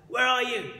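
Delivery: put-on a boy calls for his missing dad, loud and high; calling out. A narrator's reading. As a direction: shout the question into the night. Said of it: "I called out".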